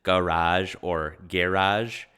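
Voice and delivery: "garage" as ga-RAHJ, then as GAIR-ahj; two variants. Shown as a demonstration. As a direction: contrast the first vowel of each "garage", slowly. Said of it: "So not even".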